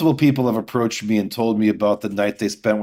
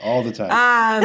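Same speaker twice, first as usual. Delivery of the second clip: laughing echo; 10 semitones higher, slower than usual. Real, not acted. Laughing echo of all the time.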